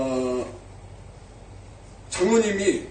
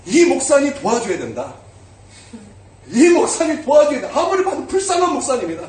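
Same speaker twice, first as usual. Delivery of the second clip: higher, louder insistent urging in the retold voice; eager retold plea, raised and louder; urging friend; 6 semitones higher, 5 dB louder than usual. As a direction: press him to go help the poor pastor.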